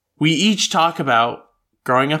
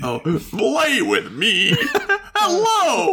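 put-on creepy child voice; 7 semitones higher, slower than usual.

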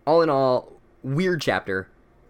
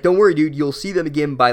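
mock reassurance; 2 semitones higher, 6 dB louder than usual. Narrator teasing Harry about his friends, mock cheerful. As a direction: cheerfully brush off his pain.

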